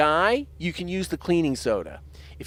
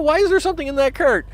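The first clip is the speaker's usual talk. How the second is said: indignant Ray; 9 semitones higher, 3 dB louder, faster than usual. Acted. Ray voiced higher.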